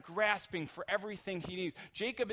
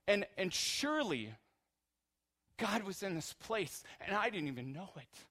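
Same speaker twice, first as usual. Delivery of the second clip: loud and higher, full of wonder; awed exclamation; 5 semitones higher, 5 dB louder than usual. Retold or imitated. Preacher voicing Jacob waking from his dream, awed and loud. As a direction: gasp it out like a man waking from a holy dream. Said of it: "he says".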